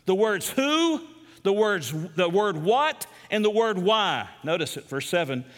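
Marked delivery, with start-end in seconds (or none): 0.1-4.3 who, what and why each set apart and lifted; stressing the three words. Shown as a demonstration. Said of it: "Paul's gonna do it with three words".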